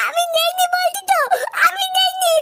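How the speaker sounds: high, desperate insistence; pleading shout. Acted. A beaten boy insists to Maya he took nothing, in a high, pleading cry. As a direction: cry out your innocence, pitched high.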